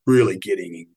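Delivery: hoarse, croaky after a conference; a tired, croaky throat. Real, not acted. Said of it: "Excuse my croaky voice".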